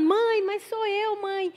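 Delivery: high, drawn-out tearful plea, acted; imitated crying. Supposed daughter pleading with mother by phone, imitated crying. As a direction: stretch it out slowly in a mock whimper. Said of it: "a voz ficava lá chorando".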